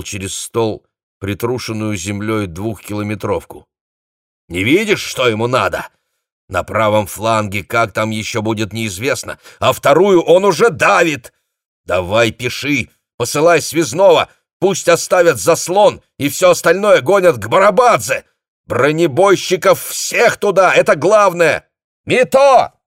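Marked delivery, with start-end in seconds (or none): 4.5-21.7 rising to high, loud insistence; heated orders. A narrator's reading. Commander angrily overrules his chief of staff. 22.0-22.7 very high, loud call; shout. A narrator's reading. Captain shouts into the receiver for Mito. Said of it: "закричал он в трубку".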